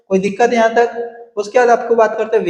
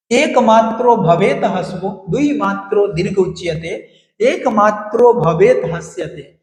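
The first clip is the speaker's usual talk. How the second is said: 1 recited shloka. Shown as a demonstration. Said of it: "ये श्लोक आप याद कर सकते हो".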